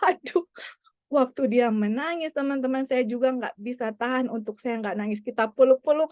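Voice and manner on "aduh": tearful sigh. Real, not acted. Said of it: "dia langsung menangis".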